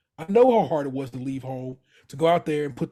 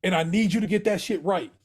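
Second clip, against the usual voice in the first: raised, higher voice getting louder at the end; emphatic Pete; 5 semitones higher, 4 dB louder than usual. Retold or imitated. Pete tells Carmy off firmly, raised voice. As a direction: Pete pressing the point hard, building to a near shout.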